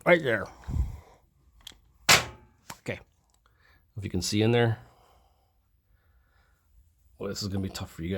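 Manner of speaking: flashlight held in the mouth; words pushed past a flashlight in teeth; mouth propped open. Real, not acted. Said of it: "I got a flashlight in my mouth".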